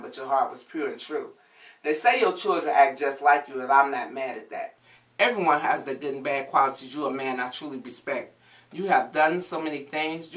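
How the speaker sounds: rhythmic, heartfelt poem recitation; spoken word poem. Acted. Daughter reciting a poem to her late father, heartfelt spoken word. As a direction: perform the verses to your late father.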